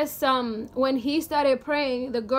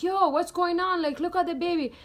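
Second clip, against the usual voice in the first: alarmed and higher, calling out to her husband; panicked mother; 5 semitones higher than usual. Retold or imitated. Startled mother calling out in alarm. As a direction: mom sees her pale baby and panics. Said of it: "she started freaking out".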